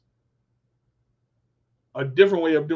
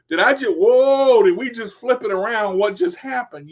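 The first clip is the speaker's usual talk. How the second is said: surprised; 4 semitones higher, 6 dB louder than usual. Acted. Mock surprise at flipped logic.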